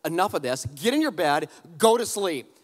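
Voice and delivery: firm commands, last one hit hard; serious dad. Retold or imitated. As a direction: lay down the law to the kids. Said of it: "I said it in about that tone".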